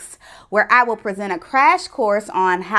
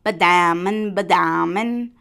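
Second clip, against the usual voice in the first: low, heavy plodding sound; imitated lumbering steps; 4 semitones lower than usual. A narrator's reading. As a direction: plod through each nonsense word. Story sound of lumbering iguana.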